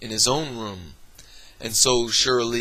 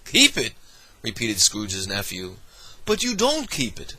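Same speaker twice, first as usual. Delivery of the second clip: incredulous. Acted. Nephew incredulous at Scrooge.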